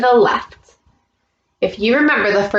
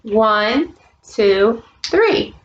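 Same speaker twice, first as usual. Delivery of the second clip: put-on teaching a child to count; much slower than usual. Shown as a demonstration. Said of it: "Can you count with me?".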